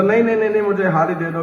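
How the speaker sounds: a touch of flustered panic, pitch jumping up on the nos; hurried nervous refusal, lightly acted; mild panicked protest. Krishna, caught out, hurriedly refusing the new clothes, mildly panicked. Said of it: "Krishna घबरा गए".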